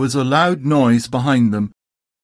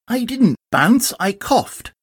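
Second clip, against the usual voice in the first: higher, mildly cross; cross Tigger; 9 semitones higher, slower than usual. Acted. Tigger contradicts Eeyore, mildly cross. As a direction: protest like an offended tiger. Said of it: "said Tigger crossly".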